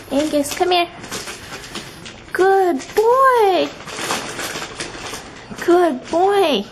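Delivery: talking to a dog. Real, not acted. Coaxing dog.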